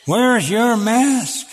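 high, drawn-out imitation of a yelling woman; stretched, high-pitched mock scolding yell. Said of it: "she yells at me and says".

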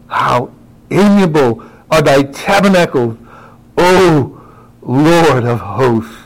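put-on hushed English accent, drawn out; slow, reverent English accent preaching. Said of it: "the way he'd say it in his English accent".

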